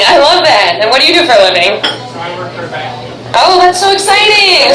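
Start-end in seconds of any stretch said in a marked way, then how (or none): 3.3-4.7 high, stretched-out mock delight; mock gushing. Comedian reacting to the partner's job, mock gushing. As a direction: gush as if thrilled.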